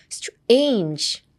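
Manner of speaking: "strange" slowly, with a gliding "ei"; English pronunciation. Shown as a demonstration. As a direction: stretch "strange" as "str-ay-nj", one syllable. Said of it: "なりがちなんですけど". (「strange」をエインジの音で)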